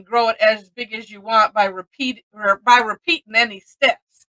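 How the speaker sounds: REPEATING said with a final N sound, as "repeatin'"; dropped final G. Shown as a demonstration. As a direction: read it Southern-style, dropping the G in "repeating". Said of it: "I left off a G".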